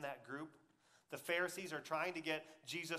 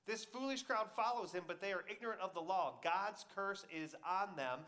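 mocking; 3 semitones higher than usual. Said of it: "the Pharisees mocked".

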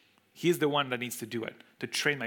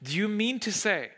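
incredulous question; 6 semitones higher than usual. Acted.

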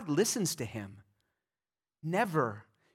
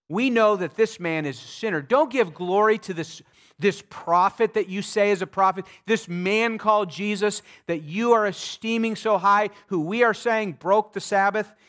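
louder, higher, accusing voice of the Pharisees; 4 semitones higher, 6 dB louder than usual. Acted. Pharisees accusing the formerly blind man, loud and stern. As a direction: hurl the charge at him like a judge.

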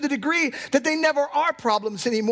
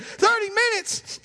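incredulous; 9 semitones higher, slower than usual. Retold or imitated. Echoing the friend in disbelief.

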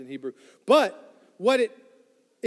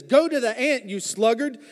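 mildly salty Solomon. Retold or imitated. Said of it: "he's getting a little aggravated".

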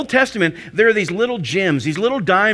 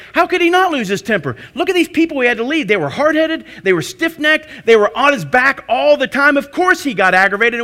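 higher, indignant pleading for Moses; mock defensive protest; 4 semitones higher than usual. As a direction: argue Moses' side like an offended friend. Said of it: "be like".

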